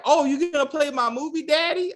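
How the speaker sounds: mock whiny suck-up asking Daddy; fawning River. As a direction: beg sweetly like a spoiled favourite. River fawning over the Highest.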